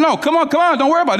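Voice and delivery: high, bright urging: come on, come on; eager coaxing. Retold or imitated. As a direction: coax them along, eager and insistent. Urging the doubtful women on.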